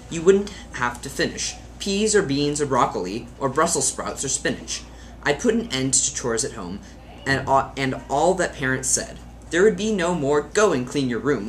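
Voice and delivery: put-on lilting children's poem recital; mildly theatrical verse reading. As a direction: read a funny poem with lively emphasis. Reads a poem aloud.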